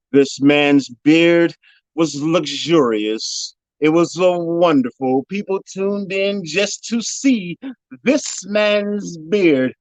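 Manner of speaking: slow, drawn-out mourning; mock mourning. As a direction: linger on every word as if grieving. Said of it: "we're gonna ask you to do a eulogy".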